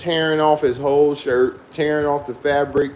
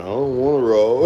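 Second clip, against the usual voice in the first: laughing refusal; 2 semitones lower than usual. Retold or imitated. Brother refusing, laughing while quoting.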